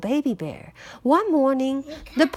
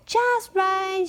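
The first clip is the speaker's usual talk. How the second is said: put-on higher, satisfied child voice; pleased girl; 8 semitones higher than usual. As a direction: sigh of approval. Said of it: "she said".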